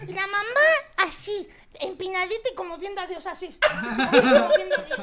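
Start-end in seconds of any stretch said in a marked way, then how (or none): 3.6-5.0 high, loud hammed-up rapture; mock ecstatic cry, high and loud; mock ecstasy. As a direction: gush it out like ecstasy. Mimics mom's ecstatic face.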